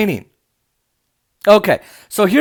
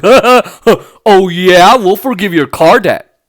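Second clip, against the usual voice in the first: smug; 4 dB louder, slower than usual. Retold or imitated. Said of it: "like, all smug".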